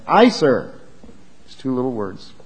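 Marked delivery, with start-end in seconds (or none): 0.1-0.7 lightly mocking yes sir; fawning. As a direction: wrap all the false eagerness into two words. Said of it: "it's all wrapped up in that".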